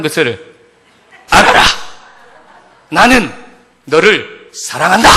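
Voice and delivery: stiff proclamation building to shouted words; gruff Gyeongsang man's declaration. Acted. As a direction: declare love like a solemn order, hammed up. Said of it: "이 무뚝뚝한 보리뭉디 경상도 사나이가 이렇게 신부에게 선언을".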